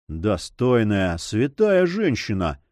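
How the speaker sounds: ordinary delivery, nothing marked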